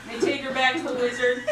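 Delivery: words breaking into real laughter; laughing through it. Real, not acted. Teller repeats the line to listeners, laughing through it. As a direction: try to say it but keep cracking up.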